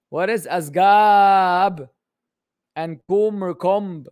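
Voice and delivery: slow, loud drawn-out disbelief; loud mock bewilderment; incredulous. Real, not acted. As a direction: stretch it out like it makes no sense. Mocking the garbled question.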